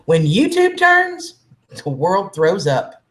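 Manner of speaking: slow, grand trailer announcer drama; dramatic movie trailer. Shown as a demonstration. Showing chat a dramatic slogan read, slow and grand. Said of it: "you could do the dramatic".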